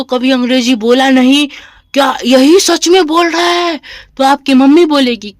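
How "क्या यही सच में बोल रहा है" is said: mock incredulous question, pitched higher; niedowierzanie. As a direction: voice a doubting parent's amazed question. Teacher voices mother's doubtful question.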